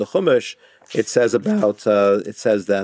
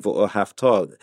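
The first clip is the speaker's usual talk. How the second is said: "v'ohavta" with weight spread evenly through the whole word; evenly balanced stress; 3 semitones lower, slower than usual. Shown as a demonstration. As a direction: say "v'ohavta" evenly, final "ta" given full weight. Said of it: "evenly balanced between in".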